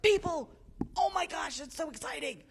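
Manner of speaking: high, loud burst of imitated excitement; hammed-up squeal of delight at seeing people; Astrid, beside herself. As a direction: gush like a thrilled little daughter. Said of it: "Just, like, beside herself".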